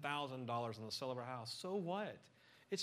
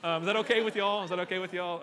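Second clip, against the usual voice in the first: laughing joke; 4 semitones higher, 10 dB louder, faster than usual. Real, not acted. Joking to audience, laughing.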